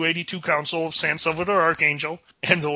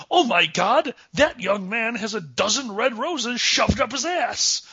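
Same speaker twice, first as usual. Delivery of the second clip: higher, slightly hammed-up astonishment; mock-shocked coworker; 6 semitones higher than usual. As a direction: act like a coworker gawking at the scene.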